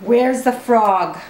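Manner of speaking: drawn-out where's the frog; slow coaxing question. Acted. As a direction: ask slowly to coax the toddler.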